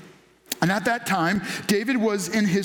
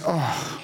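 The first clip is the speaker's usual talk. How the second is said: wistful sigh; 5 semitones lower than usual. Retold or imitated. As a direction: let the oh fall out as a tired sigh. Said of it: "almost hear him sigh".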